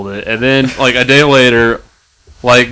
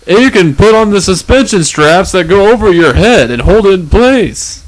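peppy TV ad pitch, raised; infomercial voice; 5 semitones higher than usual. Acted. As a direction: sell it like a late night ad.

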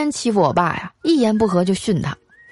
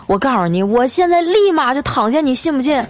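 put-on confrontational old lady; 4 semitones higher than usual. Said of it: "掐着腰啊，就问他".

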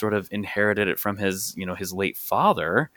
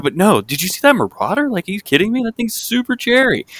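much higher and louder, laughing mimicry of a fan; mock gushing; 14 semitones higher, 8 dB louder than usual. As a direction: squeal about the Marauder in mock excitement. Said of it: "And you're over there".

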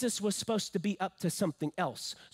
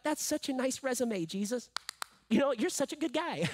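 lightly hammed-up, higher-pitched praise; mock admiration; 4 semitones higher than usual. Congregation praising Jesus's resume, mildly mocking admiration. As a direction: gush politely at a raised pitch. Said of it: "you and I look at that and be like".

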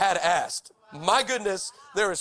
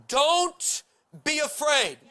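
bold reassurance; 6 semitones higher, much slower than usual. Acted. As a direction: call out firmly to calm him. Elisha reassures servant.

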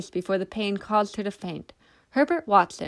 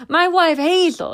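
higher, louder exclamation; jovial drunk exclaiming about his wife; exclaimed; 9 semitones higher, 7 dB louder than usual. A narrator's reading. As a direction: exclaim it proudly. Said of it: "he exclaimed".

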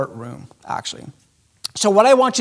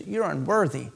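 accusing devil voice. Retold or imitated. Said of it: "his tone changes. He says".

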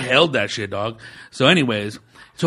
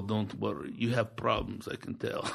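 low murmured reassurance, barely voiced at the end; hushed con man; 6 semitones lower, 15 dB quieter than usual. Body shop guy reassuring the teller, in a hushed murmur. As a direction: lean in and murmur the pitch quietly.

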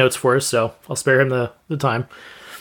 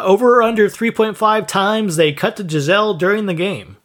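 a bit higher, hyped announcer read; 4 semitones higher than usual. Acted. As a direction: read it like a game show host. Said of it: "in my best announcer voice possible".

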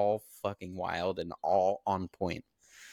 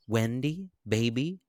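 fake hurt husband; 5 semitones higher, 5 dB louder than usual. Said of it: "He says".

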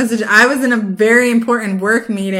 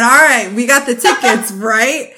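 retold question; 5 dB louder than usual. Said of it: "and I said".

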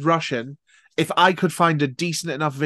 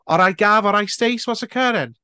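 high, loud, lilting mock Welsh; bad Welsh accent; 8 semitones higher, 5 dB louder than usual. Shown as a demonstration. Getting into the Welsh accent they can't do, bad Welsh accent. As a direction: launch into a terrible Welsh accent, pitched up. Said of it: "Welsh is the only accent that I can't do".

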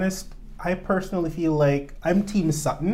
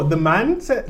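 put-on Toronto accent; 3 semitones higher, 5 dB louder than usual. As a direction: echo the co-host's Toronto accent loudly. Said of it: "that's a Toronto accent right there".

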